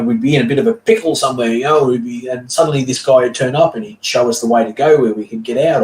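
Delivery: a lightly voiced eager adventurer; excited storyteller Nabir.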